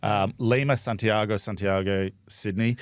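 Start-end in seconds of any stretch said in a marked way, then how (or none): 0.8-2.1 Santiago said the Spanish way, light rolling Spanish vowels; a hint of Spanish accent on Santiago; lightly Spanish Santiago. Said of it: "You said Santiago with an accent there".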